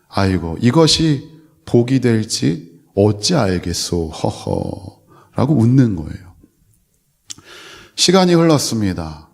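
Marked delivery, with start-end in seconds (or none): 0.1-5.5 put-on an old man's slow, chuckling calm, laughing it off. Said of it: "허허허 웃으면서". (허허 웃으며 느긋하게 말하는 노인)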